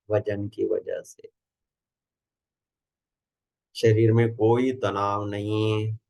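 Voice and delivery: measured instructions with long pauses between phrases; guided meditation. Acted. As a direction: guide a group into relaxation, unhurried.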